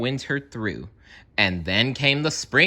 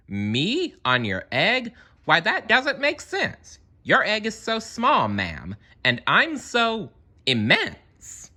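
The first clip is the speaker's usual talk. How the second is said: Horton protesting; 12 semitones higher than usual. A narrator's reading. Horton protests the egg idea.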